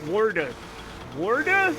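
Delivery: "water" echoed as "wor-der"; "Water" mimicked doubtfully as "wor-der"; questioned pronunciation. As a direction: question "Water" with an R in the first syllable. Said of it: "I don't say water".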